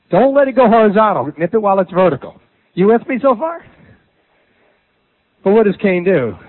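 ordinary talk, nothing marked

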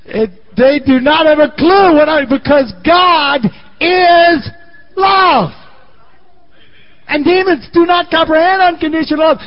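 loud, high preaching climb; preaching at full force. Real, not acted. Preacher shouting to the congregation about love.

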